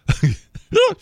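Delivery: high, choking splutter; choked splutter. Real, not acted. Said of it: "almost choked there".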